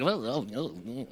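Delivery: low, soft uneasy oh oh oh; uneasy low oh sounds. Shown as a demonstration. A preacher's uneasy low oh to his congregation. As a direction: groan like something sits wrong. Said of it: "that feeling when you hear something like".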